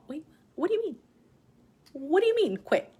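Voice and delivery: high-pitched, stunned questioning; retold disbelief. Wife stunned by her husband's advice to quit, retold disbelief.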